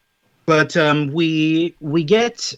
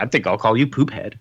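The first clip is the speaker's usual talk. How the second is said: mock echo, lower than the lady's line; lightly voiced retort; 3 semitones lower than usual. Mocking the lady's pet name, lightly voiced retort. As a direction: lightly parody the naming in a lowered voice. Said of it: "I'm like".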